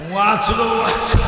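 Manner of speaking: loud relieved exclamation; relieved cry. Real, not acted. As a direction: shout out in relief.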